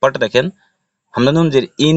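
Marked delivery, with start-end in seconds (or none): 1.9-2.0 ইন with a long humming n; nasal ghunnah. Shown as a demonstration. Teacher pointing out wajib ghunnah, nasal hum on ইন. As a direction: hold the n of ইন in the nose. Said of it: "এটা ওয়াজিব গুন্না".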